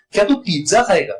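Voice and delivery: पिज्जा underlined by the voice, तू passed over; stress on पिज्जा. Shown as a demonstration. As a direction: hit the word पिज्जा. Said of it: "और दूसरे को मैं कहूं". (पिज्जा शब्द पर ज़ोर)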